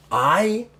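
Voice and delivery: high, loud drawn-out outburst; brief angry swell; sudden flare-up. Acted. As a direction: burst out on the word. Orc flaring up mid-threat.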